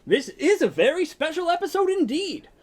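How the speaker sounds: hammy host talking to audience; show host narration. Acted.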